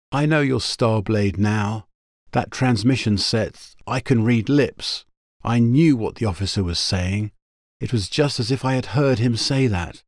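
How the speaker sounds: quick and breathless. Acted. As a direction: rush it out, short of breath. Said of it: "She said quickly, breathlessly".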